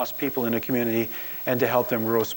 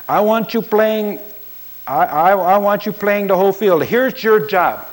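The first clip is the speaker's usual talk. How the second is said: put-on loud, high Latino accent, barking at a player; a Latino coach commanding his lineman up close; 7 semitones higher, 5 dB louder than usual. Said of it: "he has this distinctive accent".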